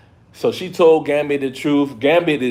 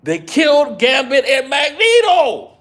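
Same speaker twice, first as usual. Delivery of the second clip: emotional; 10 semitones higher, 3 dB louder than usual. Real, not acted. Emotional about characters dying.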